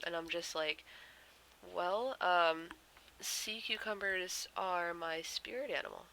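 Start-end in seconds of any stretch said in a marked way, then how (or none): 1.6-6.1 deadpan explanation; earnest poker-faced answer; straight-faced. Retold or imitated. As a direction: deliver it with a totally straight face. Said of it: "Just straight-faced".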